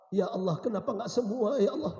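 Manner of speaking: plea to God, rising in pitch; acted regret, not yet shouted; mournful plea. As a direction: start the lament restrained, then lift it. Dying husband's plea, first take.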